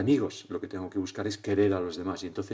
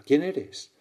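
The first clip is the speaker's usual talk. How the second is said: higher, louder amazed call; astonished question; 6 semitones higher, 7 dB louder than usual. Acted. Boy calls to the unseen voice, astonished question. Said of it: "El niño asombrado pregunta".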